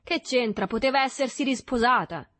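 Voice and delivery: high, loud protest; defensive. A narrator's reading. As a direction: push back against the teasing. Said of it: "si difese il Tortima".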